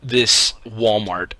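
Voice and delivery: imitating a shocked store clerk; stunned disbelief. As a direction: spell it out slowly, stunned. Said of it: "And she's like".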